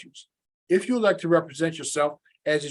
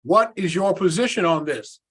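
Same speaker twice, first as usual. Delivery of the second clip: slow and deliberate. Real, not acted. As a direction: spell it out slowly for a bad line. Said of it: "I can't hear you".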